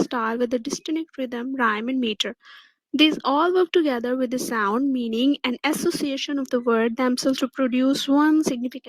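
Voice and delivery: slow, deliberate dictation of a definition; steady textbook reading pace. Shown as a demonstration. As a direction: read it out word by word for students to copy. Reads the textbook definition aloud.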